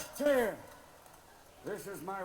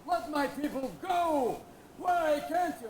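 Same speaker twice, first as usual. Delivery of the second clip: slow, loud, higher proclamation; Moses demanding; 7 semitones higher, 7 dB louder, slower than usual. Acted. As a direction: thunder it at Pharaoh, hammed up. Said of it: "That time Moses said".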